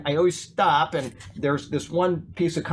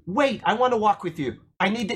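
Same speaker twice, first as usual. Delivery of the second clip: begging; 5 semitones higher than usual. Retold or imitated. Drunk man begs to walk with the one leaving, pleading. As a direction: imitate someone begging to come along. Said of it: "he was begging".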